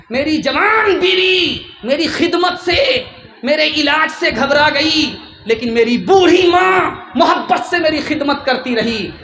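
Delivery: lightly voiced ailing son, calling out his hurt; sick husband's lament. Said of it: "وہ اپنے کان سے سن کر کے کہتا ہے".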